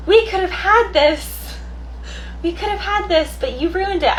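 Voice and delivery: high, put-on whiny accusation; mock accusing voice. Reader acting out a jilted partner, high and whiny. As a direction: whine it like a jilted lover. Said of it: "There's just an energy here of".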